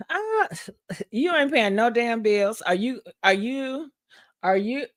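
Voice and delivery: a hint of sassy warning; sassy retort. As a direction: put him in his place coolly. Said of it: "I said".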